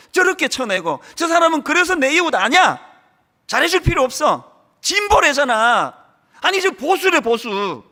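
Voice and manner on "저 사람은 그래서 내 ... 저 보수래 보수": mock dismissal. Voicing a dismissive member.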